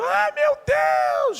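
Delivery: very high, slow, loud scream of fright; terrified scream. Acted. Disciples seeing a figure on the sea, screaming in fright. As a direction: stretch out a panicked cry. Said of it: "quando viram".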